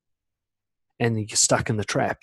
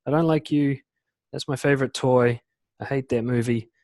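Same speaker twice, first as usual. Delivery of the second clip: put-on simple kid-like statements, starting high; 3 semitones higher than usual. Shown as a demonstration. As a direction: blurt likes and dislikes like a child. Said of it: "You can just be like a kid".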